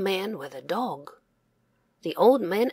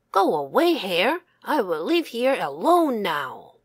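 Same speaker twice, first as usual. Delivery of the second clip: fox; 2 semitones higher, 4 dB louder than usual. Acted. Fox kicks hare out.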